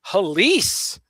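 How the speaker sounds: imitated dad's yell. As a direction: call it out like Dad yelling. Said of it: "he would just yell".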